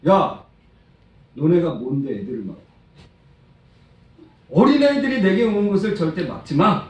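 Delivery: acted stern rebuke; angry Jesus. Jesus rebuking disciples for blocking children, acted anger. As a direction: scold firmly, rising to a forceful prohibition. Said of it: "엄청 화를 내셨어요".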